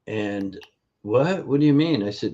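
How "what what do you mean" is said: surprised patient. Retold or imitated. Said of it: "Her head just about spun".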